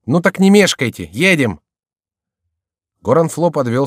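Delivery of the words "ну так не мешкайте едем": high, loud hurry-up; pitched up and insistent; urging command. A narrator's reading. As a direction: urge a dawdling companion on. Chicot urging his companion on.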